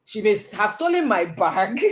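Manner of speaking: "bag" lifted at the end; stress on BAG. Shown as a demonstration. Coach offering another stolen thing, stress on "bag". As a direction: punch "bag" as the alternative. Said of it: "I didn't say money".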